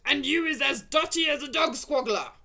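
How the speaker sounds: loud, high jeering cry; mock him loudly. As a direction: Blood Bottler mocking the BFG. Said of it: "cried the Blood Bottler".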